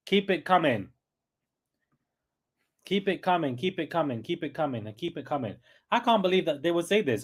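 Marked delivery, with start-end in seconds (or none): 0.1-5.6 fading repetition. Real, not acted. Repeated, fading out.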